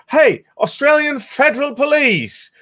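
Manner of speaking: high, slow, sneering read of a troll's tweet; mocking troll voice. Vlogger reading a hateful tweet aloud, in a high mocking voice. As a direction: ham up the accuser like a clueless troll. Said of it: "it goes".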